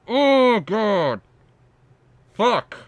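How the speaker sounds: high, loud exasperated outburst. Real, not acted. Streamer fed up with the video, exasperated outburst. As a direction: groan and curse in despair.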